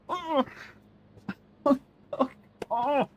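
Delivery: high, laughing through the pain; hurt but laughing it off; pained laughter. Real, not acted. Still hurting from stubbed toe.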